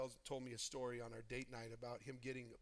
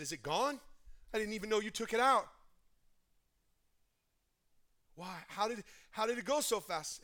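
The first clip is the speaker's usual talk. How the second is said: louder, higher amazed question; amazed child; 8 semitones higher, 11 dB louder than usual. Retold or imitated. Retelling son asking his mother how it went so fast, amazed. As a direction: voice the boy's astonishment.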